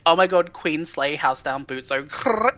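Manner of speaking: camp it up like a zoomer bestie; ironic zoomer. Pretend. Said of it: "walk up to the Queen and be like".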